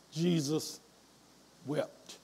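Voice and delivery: soft, low, drawn-out with long pause; hushed solemn. Real, not acted. Preacher reading Jesus wept to the church, hushed. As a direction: let the verse fall quietly.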